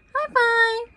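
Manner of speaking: put-on high, loud praise for a baby; excited cheer. Cheering baby's high five.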